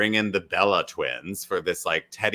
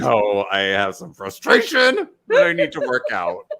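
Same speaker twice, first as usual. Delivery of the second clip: mock frustrated; 4 semitones higher, 6 dB louder than usual. Voicing Will joking, laughing.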